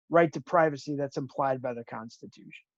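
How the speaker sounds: choppy, breaking up audio; call dropping out. Real, not acted. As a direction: voice cutting in and out. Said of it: "You're really choppy".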